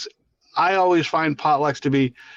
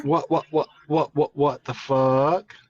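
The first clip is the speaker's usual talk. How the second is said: stunned disbelief. Real, not acted. News of a death.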